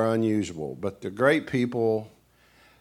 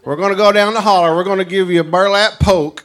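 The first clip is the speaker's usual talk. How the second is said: scheming country host; 8 semitones higher, 11 dB louder than usual. Retold or imitated. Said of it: "what snipe hunting is".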